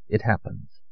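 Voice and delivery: tender and hushed; soft reassurance. Acted. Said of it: "Allier said softly".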